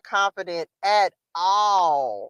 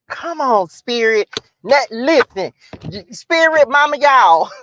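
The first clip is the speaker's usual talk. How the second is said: excited cheering; 2 semitones higher, 7 dB louder than usual. Real, not acted. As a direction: hype up the spirit. Cheering at her old self.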